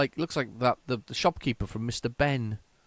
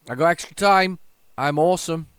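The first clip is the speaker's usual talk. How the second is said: excited; 5 semitones higher, 7 dB louder than usual. Real, not acted. Pleased with himself mid-game.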